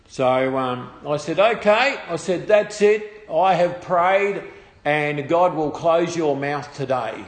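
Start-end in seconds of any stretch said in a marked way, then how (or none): 1.4-2.0 louder, higher mock-solemn challenge; raised voice, retelling a challenge; retold firm declaration. Retelling his challenge to the blasphemer. 2.5-7.2 slow, emphatic declaration; loud start, slowly and firmly delivered; retold solemn pronouncement. Retelling his challenge to the blasphemer.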